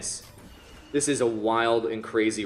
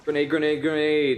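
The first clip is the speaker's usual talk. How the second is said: urgent shouted warning, higher and louder; grenade warning yell; 6 semitones higher, 5 dB louder than usual. Real, not acted. Warning yell during game.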